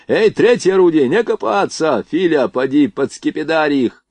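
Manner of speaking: high, loud call to the gun crew; shouted order. A narrator's reading. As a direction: yell at them to get moving. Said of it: "крикнул он Блохину".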